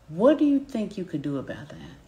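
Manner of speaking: even, unhurried question; calm coaching cadence. Shown as a demonstration. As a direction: ask it gently and openly. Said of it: "hear my cadence".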